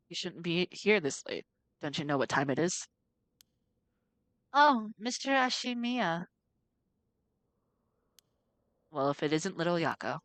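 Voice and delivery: a hint of a gruff caretaker; lightly voiced old janitor.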